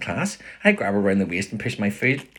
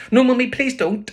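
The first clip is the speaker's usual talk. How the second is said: put-on high, loud child begging Mummy; pleading little boy; 9 dB louder than usual. A narrator's reading. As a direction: plead with Ma in a small boy's high voice. Child begs mother not to.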